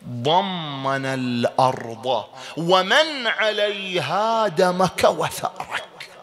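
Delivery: slow solemn recitation; recited ziyara. Shown as a demonstration. Teacher reciting the Husayn ziyara slowly and solemnly. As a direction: draw out each word like a pilgrim's prayer. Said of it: "اقرأ زيارة الحسين".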